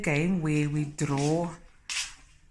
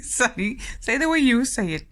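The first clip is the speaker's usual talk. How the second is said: louder, higher, quick coaxing of the dog; eager coaxing; 9 semitones higher, 7 dB louder than usual. Real, not acted. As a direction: egg the dog on to bark. Urging the dog to bark.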